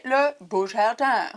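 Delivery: drawn-out mock English accent on Beau Jardin; playful put-on English accent. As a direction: say the French name slowly as if English. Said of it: "faut le dire avec l'accent anglais".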